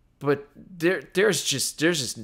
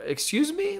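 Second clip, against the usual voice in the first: indignant excuse me; 13 semitones higher, 5 dB quieter than usual. Retold or imitated. Mock reaction to inconsistent dialogue.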